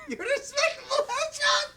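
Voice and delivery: high squeaky laughing echo. Real, not acted. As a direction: laugh the words out in disbelief. Mocking the line, laughing.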